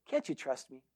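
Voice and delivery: quiet, low coaxing question; hushed appeal. Retold or imitated. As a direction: drop the voice and appeal for trust. Retold hunter pleads with shepherd.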